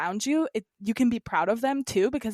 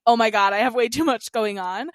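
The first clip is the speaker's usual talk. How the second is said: a louder mock-panicked cry; overwhelmed outburst; 2 semitones higher, 7 dB louder than usual. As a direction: blurt it out like everything just landed at once. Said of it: "And then I'm like".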